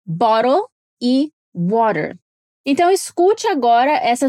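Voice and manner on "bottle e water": American "bottle e water", light flapped t's. Shown as a demonstration. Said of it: "colocar esse som de D".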